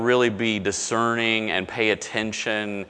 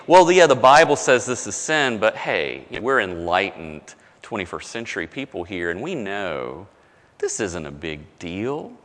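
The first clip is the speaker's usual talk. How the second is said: mock enlightened preacher; 4 semitones lower than usual. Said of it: "But if somebody starts saying".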